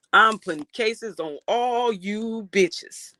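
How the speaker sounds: slow, drawn-out Denzel delivery; lightly voiced Denzel, each word stretched. Streamer quoting Denzel to chat, slow and drawn out. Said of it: "in my Denzel voice".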